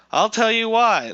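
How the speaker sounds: high, loud yell; yelled reading. Acted. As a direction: yell it out like a forum rant. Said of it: "I'm not yell".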